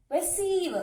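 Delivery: "Receive" with a strong, falling CEIVE; stress on second syllable. Shown as a demonstration. Teacher models a verb for students, "Receive" stressed on ceive. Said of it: "we have to stress on this part".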